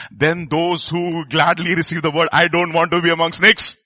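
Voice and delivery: loud, measured sermon delivery; emphatic pulpit voice; forceful preaching. Real, not acted. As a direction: preach it slowly and firmly, building in volume.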